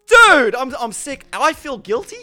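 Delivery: pleading. Retold or imitated. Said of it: "retold pleading while sick".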